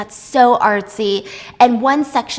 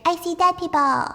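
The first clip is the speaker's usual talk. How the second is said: put-on high, eerie little-girl voice; creepy little girl voice; 6 semitones higher than usual. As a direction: play a spooky six-year-old seeing ghosts. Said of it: "expecting a creepy little six-year-old girl's voice".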